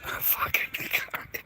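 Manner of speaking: voiceless, wheezy laugh through the words; hushed words dissolving into laughter; helpless laughing. Real, not acted. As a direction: squeeze the words out while laughing. Laughs at own forgetfulness.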